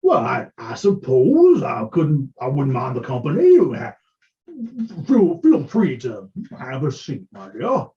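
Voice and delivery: woo her hesitantly; a hint of a smitten old patron; flirty portly gentleman. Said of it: "he looks at you and he goes".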